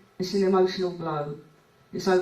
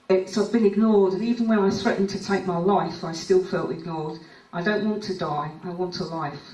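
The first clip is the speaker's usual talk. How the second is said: emotional; 4 dB louder than usual. Real, not acted. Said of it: "I'm getting really emotional now".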